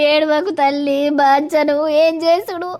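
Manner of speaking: tearful, helpless question; a mother consoling her daughter through tears; crying. Acted. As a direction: sob as you ask.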